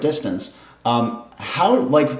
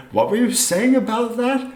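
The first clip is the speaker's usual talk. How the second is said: lightly voiced inquisitive stranger, higher; voice in your ear; 9 semitones higher than usual. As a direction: lean in with a pointed question. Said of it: "another voice says in your ear".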